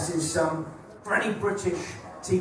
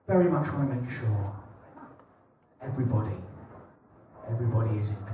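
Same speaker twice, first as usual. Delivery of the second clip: slowed-down inclusive line; 9 semitones lower, 6 dB quieter, faster than usual. Shown as a demonstration. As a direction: drag the line out while giggling. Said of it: "I can't do the accent".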